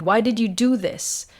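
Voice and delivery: an angry husband's accusing half-shout. Acted. Angry husband confronting his wife over the affair, mild shout. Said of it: "He shouted".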